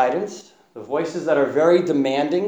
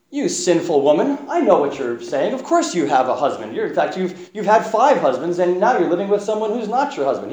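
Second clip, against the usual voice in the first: lightly played accusing tone, demanding; arrogant, demanding; 4 semitones higher than usual. Preacher voicing Jesus how he did not speak, mock arrogant. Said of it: "in an arrogant, demanding way".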